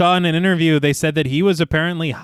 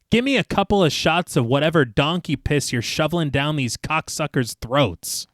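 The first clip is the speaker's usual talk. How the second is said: story narration; 3 dB quieter, slower than usual. Acted. Film podcast host reads the bar scene to co-hosts, measured narration. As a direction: read the scene out steadily.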